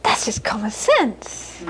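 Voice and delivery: mother calmly dismissing the question; matter-of-fact mother. Retold or imitated. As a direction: state it like it's obvious. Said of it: "She'd say".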